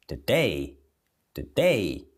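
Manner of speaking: "Today" with weak "tuh" and strong "DAY"; second-syllable stress. Shown as a demonstration. Teacher drilling word stress, "Today" stronger on "day". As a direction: punch "DAY" in "Today", swallow the first syllable. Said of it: "Mais forte na próxima".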